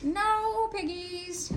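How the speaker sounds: slow, high sung "No piggies"; sing-song duck. A narrator's reading. Duck answers Grinch, sing-song. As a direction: tease the witch.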